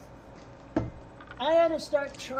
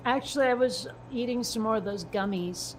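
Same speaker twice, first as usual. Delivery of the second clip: words slightly slurred and loose; slurred speech. Real, not acted. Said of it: "You sound drunk".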